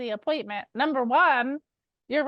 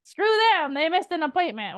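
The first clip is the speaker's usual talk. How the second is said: imitating annoyed thought; 4 semitones higher than usual. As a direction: voice the grudge of a slighted seller. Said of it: "we just get pissed and we think".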